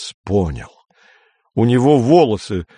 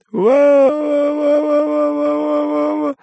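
howling wail. Acted. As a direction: wail in growing terror. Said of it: "Тихонько, а потом всё громче завыл".

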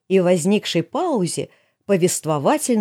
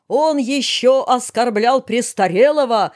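high, slow, aggrieved tattling; telling on him; 5 semitones higher, 3 dB louder, slower than usual. A narrator's reading. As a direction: complain like an injured party. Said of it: "донёс Сенцов". (жалобно ябедничая, нараспев)

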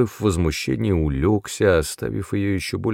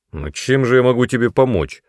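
curt, raised and impatient; sharp; 5 semitones higher, 5 dB louder than usual. A narrator's reading. Brother cuts off his sister's begging, sharply. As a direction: snap back at a pleading sister. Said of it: "сказал Мэтт резко".

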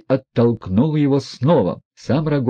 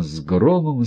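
usual speaking voice

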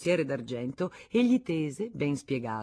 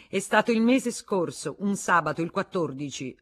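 quick, high and louder; hurried; 5 semitones higher, 7 dB louder than usual. Acted. Wife hastening to add details, hurried. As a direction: rush to add the date. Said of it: "s'affrettò ad aggiungere".

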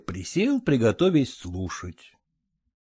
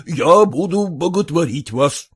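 firm. Acted. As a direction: promise it steadily like an oath. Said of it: "твёрдо говорил Ерехонский".

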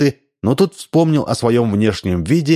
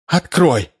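raised demanding call; shout through door; 6 semitones higher than usual. A narrator's reading. Wife at the door, demanding shout. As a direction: call out to be let in. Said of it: "раздался голос за дверью".

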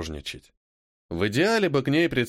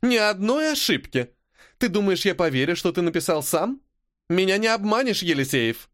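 accusing teacher; 7 semitones higher than usual. A narrator's reading. Teacher accuses pupil of cheating.

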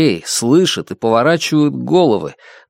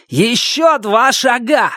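urgent order; 11 semitones higher, slower than usual. Acted.

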